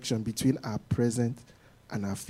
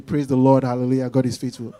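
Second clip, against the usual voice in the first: quick, showy churchy autopilot; hammed-up glib praise; mock pious cliché; 3 semitones lower, faster than usual. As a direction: rattle it off like a stock religious answer. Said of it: "I am a religious person".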